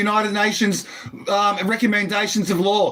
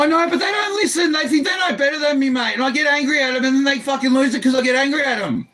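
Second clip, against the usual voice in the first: heated, raised-pitch complaint; exasperated protest. Real, not acted. Patient complaining to police nobody listens, exasperated protest. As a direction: burst out, frustrated at being unheard.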